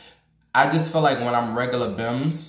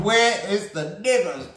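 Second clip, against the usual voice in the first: laughing through a higher, playful repeat; 7 semitones higher, slower than usual. Real, not acted. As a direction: crack up as you ask it again.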